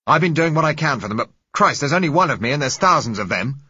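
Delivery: loud, high, passionate fury; violent rant. Acted. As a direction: hammer them with contempt. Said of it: "The man's voice was violent".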